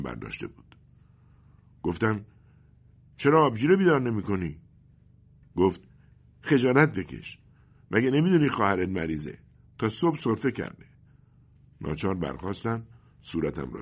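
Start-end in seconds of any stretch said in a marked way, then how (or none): 3.2-4.6 put-on higher, louder whiny boy voice; grumbling boy. Boy protests. 6.4-10.9 much higher, louder voice of a scolding mother; nagging mother. Acted.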